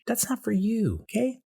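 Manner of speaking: high insistent refusal; mock firm refusal. Refusing the waxer, high mock protest. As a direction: push her away, voice up. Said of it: "And I'm like".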